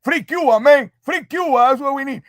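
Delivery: put-on broken English Cuban accent; proud Cuban uncle voice. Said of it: "What happened to the Cuban accent?".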